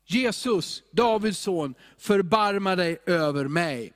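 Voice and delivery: understated plea, called out while reading; calling out. Acted. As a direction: read it as a restrained cry to Jesus. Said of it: "började han ropa".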